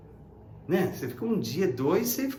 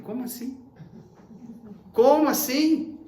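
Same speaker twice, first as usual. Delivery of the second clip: higher, louder incredulous question; disbelief; 7 semitones higher, 5 dB louder than usual. Retold or imitated. Preacher retells his shocked reply to a mourner, incredulous.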